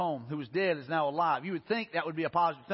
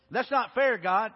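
louder, higher indignant cry at God; indignant protest; 4 semitones higher, 6 dB louder, slower than usual. Retold or imitated. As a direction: protest the unfairness out loud. Self-righteous complaint quoted.

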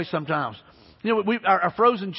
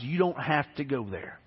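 softer and slow, the words barely getting out; timid, barely out; 4 semitones lower, 6 dB quieter than usual. Retold or imitated. Son to his lost dad in the car, timid and halting. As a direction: say it haltingly, as if scared to speak. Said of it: "all I could get out was".

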